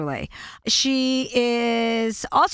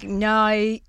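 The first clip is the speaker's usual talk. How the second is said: Australian-style "nay". Shown as a demonstration. Host demonstrating the accent to guest, Australian attempt. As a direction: try "nay" with an Australian twang. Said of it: "'Cause it's like".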